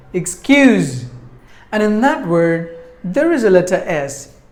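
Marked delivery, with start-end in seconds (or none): 0.1-1.1 "Excuse" with a louder second syllable; stress on second syllable. Shown as a demonstration. Teacher showing the stressed word whole, "Excuse" stressed at the end. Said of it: "should be given more volume".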